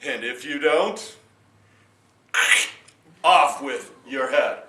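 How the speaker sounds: loud royal decree; a king threatening with relish; commanding king. Acted.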